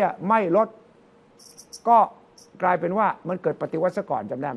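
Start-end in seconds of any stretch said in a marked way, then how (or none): none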